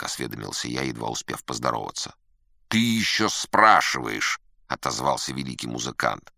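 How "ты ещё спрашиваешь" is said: loud, high, drawn-out indignation; indignant. Acted. Great musician answering his visitor's concern, indignant. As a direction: throw the question back, offended.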